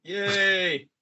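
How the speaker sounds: high, bright cheer; excited cheer. Real, not acted. Cheer for the band.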